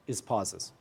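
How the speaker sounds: long held pause, then pauses said low and soft; dramatic pause. Shown as a demonstration. Teacher showing students a suspense pause before the word. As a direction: make them wait for pauses. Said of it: "You saw that? I used it there".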